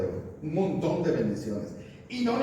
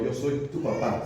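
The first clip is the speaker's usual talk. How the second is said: slower, fond "Yo soy tu papá"; tender father; 2 semitones lower than usual. Shown as a demonstration. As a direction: say "papá" like a loving dad, unhurried. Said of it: "¿Se entiende la diferencia?". (con ternura de papá, despacio)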